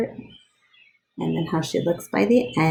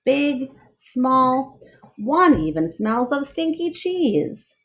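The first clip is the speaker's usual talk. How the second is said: lively read-aloud storyteller voice; story narration; 4 dB louder, slower than usual. Acted. Reading a picture book aloud to children, lively storyteller voice.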